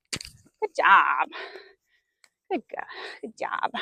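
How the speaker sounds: hushed unvoiced praise; whispered praise. Real, not acted. Rider whispering good job to the mare. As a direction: whisper it close to the horse.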